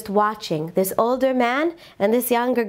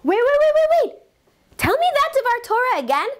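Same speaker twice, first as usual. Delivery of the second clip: emotional; 13 semitones higher, faster than usual. Retold or imitated. Man in the house stops the visitor, calling out excitedly. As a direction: stop him in his tracks, overcome. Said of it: "All of a sudden gets very emotional and says".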